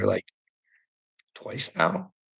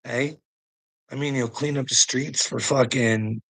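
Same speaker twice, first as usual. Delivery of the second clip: normal talking voice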